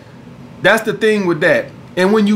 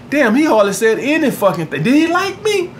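mock wondering girl; 4 semitones higher than usual. Woman wondering after date.

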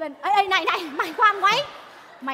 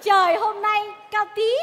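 slow, drawn-out poem recital; 5 semitones higher, 5 dB louder, slower than usual. Acted. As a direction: recite it like a solemn verse. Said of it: "mày ngâm lại tao chơi liền".

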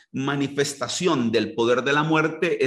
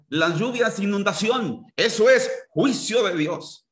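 higher, lightly mocking preacher tone; mocking false prophet; 5 semitones higher than usual. Preacher parodying so-called prophets again, light higher mockery. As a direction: echo their claim with scorn. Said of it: "a esos disque profetas".

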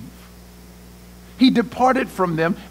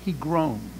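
groaned; 7 semitones lower, 11 dB quieter than usual. A narrator's reading. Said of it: "when Jesus saw her weeping".

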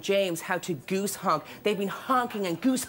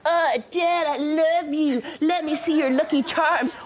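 leprechaun; 4 semitones higher, slower than usual. Retold or imitated. George voiced in gossip story.

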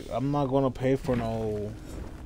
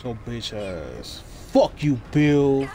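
angry; 4 dB louder, slower than usual. Real, not acted. Insulting teammate.

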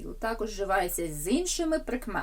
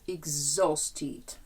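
exhausted, stressed on the middle "haus" syllable; 3 semitones lower than usual. Shown as a demonstration. Teacher answering where the stress falls, exhausted stressed on O. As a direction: model exhausted with a clear O carrying the stress. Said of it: "На О".

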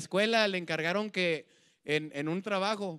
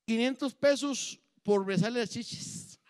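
put-on drunk offer; 4 semitones higher, slower than usual. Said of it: "ya pedo".

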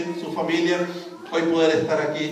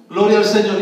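praise shout; 9 dB louder than usual. Real, not acted. Preacher exclaims praise.

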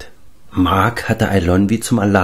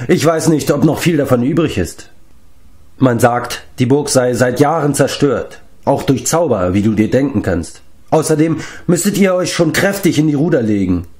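talkative giant; 5 semitones higher than usual. Acted.

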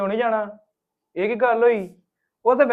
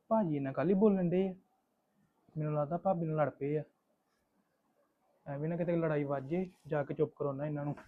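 soft, lower aside to himself; worried aside; 4 semitones lower, 11 dB quieter than usual. Acted. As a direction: keep it hushed, thinking aloud. Worried aside before stepping in.

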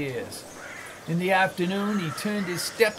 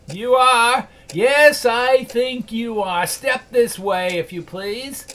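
loud, higher mock outrage, slow; feigned fury; 5 semitones higher, 5 dB louder, slower than usual. Scrooge pretending anger at Bob, loud mock outrage. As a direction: bark it out like the old miser. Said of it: "as near as he could feign it".

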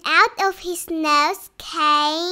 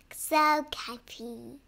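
much softer, sleepy; soft and cozy; 5 semitones lower, 11 dB quieter than usual. Acted. Winnie sleepily pleased in her cozy bed. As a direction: murmur it, snuggled in.

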